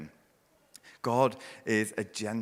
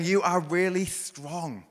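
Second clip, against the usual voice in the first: put-on raised and bright, telling a toddler he's strong; emphatic parent voice; 7 semitones higher, slower than usual. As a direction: lift it up like praising a little boy.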